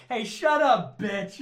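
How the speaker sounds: loud, high-pitched mock command; hammed-up aggressive outburst; mock bullying. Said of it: "you say it in her mouth".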